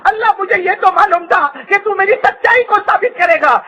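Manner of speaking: high, imploring plea without real sobs; retold weeping prayer. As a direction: act out a tearful prayer lightly. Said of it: "اللہ کے سامنے رو رو کر کہا". (رو رو کر دعا کی نقل)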